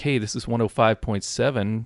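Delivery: gentle, soft, calm Sunday radio presenter voice. Opening a calm, unplugged Sunday episode in a soft radio voice. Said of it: "let's use that soft radio voice".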